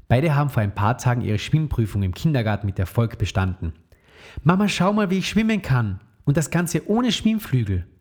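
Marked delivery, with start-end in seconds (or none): 4.4-7.9 proud call. Acted. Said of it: "rief Emma stolz".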